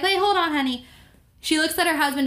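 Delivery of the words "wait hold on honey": put-on old lady. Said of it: "And she's like".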